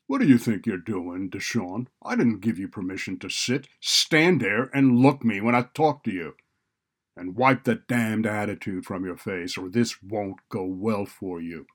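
loud, forceful reprimand; stern scolding. A narrator's reading. Administrator berating a student who sat uninvited, stern and loud. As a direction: dress down a defiant student.

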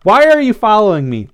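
high, loud demand; tough interrogation. A narrator's reading. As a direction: grill a captured stalker. Blythe interrogates the trapped follower.

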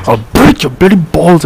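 hammed-up Indian-accented anger; mock Indian accent. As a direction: threaten in a caricatured Indian accent, drawn out. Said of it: "goes full Indian".

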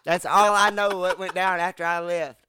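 laughing while it hurts; laughing through pain. Real, not acted. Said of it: "it hurts to laugh".

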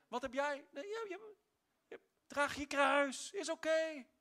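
a lightly voiced gentle inner voice; a hint of a tender divine voice; Holy Spirit's voice. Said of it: "kwam de Heilige Geest met zijn stem en zei".

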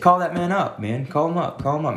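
high, eager urging; playful high-pitched urging; excited urging. Retold or imitated. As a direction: egg him on to make the call. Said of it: "witty and funny and comical".

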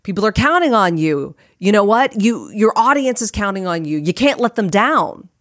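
lightly voiced inner critic; nagging Ursula. Inner critic guilt-trips podcaster over audience, lightly nagging. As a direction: press a mild guilt trip. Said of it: "I had her in my head saying".

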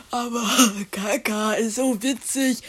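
giggly, half-apologetic protest; giggling. Acted. Scolded child still finds poo funny, giggling. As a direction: let giggles break into the words.

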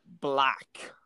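unvoiced whispered guess; whispering. Real, not acted. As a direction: whisper the answer.

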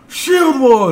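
loud rallying shout; shouted battle cry. Retold or imitated. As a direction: bellow it like a battle call. Players shout battle call.

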